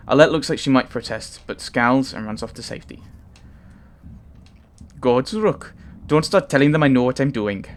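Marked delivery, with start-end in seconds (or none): 5.0-7.6 a light Welsh lilt for the giant Varl; understated Welsh accent, slightly higher. Acted. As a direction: read Ivar's lines in a gentle Welsh accent. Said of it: "he's Welsh".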